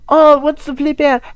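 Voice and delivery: high, loud squeaky voice for the rocket; mock rocket voice. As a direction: voice the rocket like a silly cartoon. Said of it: "But whenever I make a rocket".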